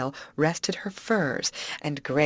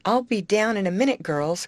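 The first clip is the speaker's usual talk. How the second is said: high, loud, hurried call; raised voice, quick and lifted; 6 semitones higher, 4 dB louder than usual. A narrator's reading. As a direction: call back to friends while rushing off. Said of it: "called Grace as she hurried upstairs".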